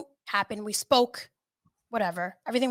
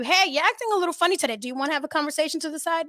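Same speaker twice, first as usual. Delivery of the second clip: brisk call-out; 6 semitones higher, faster than usual. Pretend. Imagined call-out at work.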